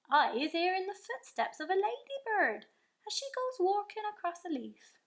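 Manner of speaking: the giant boasting of his hearing with wonder; friendly giant voice. A narrator's reading. The BFG telling Sophie what he hears, in a giant's voice.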